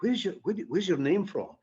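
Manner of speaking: a hint of hostile questioning; lightly acted nosy interrogator; mock hostile question. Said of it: "I get a wee bit hostile".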